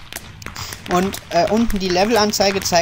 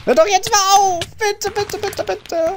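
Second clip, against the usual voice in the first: high-pitched mock begging; playful pleading; 12 semitones higher, slower than usual. Begging to be left alone.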